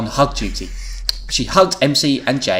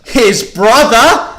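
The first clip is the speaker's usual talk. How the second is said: slow, high, loud cartoon reveal; nineties cartoon character; 8 semitones higher, 6 dB louder, much slower than usual. Narrator reveals Scott is the brother, cartoon voice. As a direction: draw it out like a cartoon cliffhanger. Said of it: "sound like a cartoon character from a nineties".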